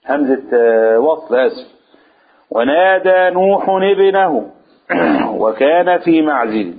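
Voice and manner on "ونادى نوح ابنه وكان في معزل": Quran recitation. Shown as a demonstration. Reciting the verse.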